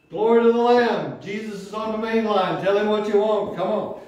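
rally the church with praise; preacher exhorting the congregation; preaching exhortation. Acted.

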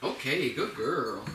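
slow, swooping sing-song praise; dog praise. Real, not acted. Trainer to the dog as it rings the bell, sing-song praise.

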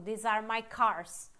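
slow, carefully spaced English model sentence; teacher modelling English slowly; slow English demo. Shown as a demonstration. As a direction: spell it out word by word for learners. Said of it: "Não".

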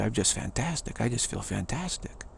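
lightly cheerful, steady; upbeat answer. Shown as a demonstration. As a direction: say it like you mean it, without fuss. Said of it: "I don't say".

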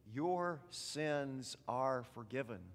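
slow, measured words of forgiveness; gentle absolution. Retold or imitated. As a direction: pronounce forgiveness slowly and gently. Quoting God's words of forgiveness.

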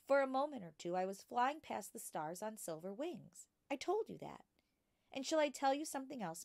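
put-on a bright young girl asking her teacher; young Matilda. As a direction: ask like a curious small girl. Matilda's childlike voice.

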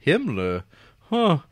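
high, loud acted-out reaction; hammed-up halting echo of a shocking remark; mock taken aback. Acting out teacher's stunned reaction.

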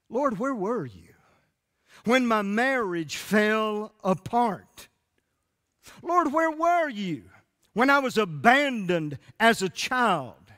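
high, slow, pleading cry; anguished plea. Acted. Wounded believer asking God why, anguished. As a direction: ache on "were". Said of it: "felt like this".

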